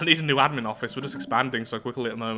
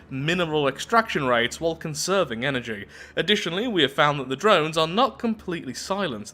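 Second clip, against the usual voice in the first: measured storyteller with lively emphasis; event text narration; 2 semitones higher than usual. Acted. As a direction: read it out like a documentary script. Reads event text aloud.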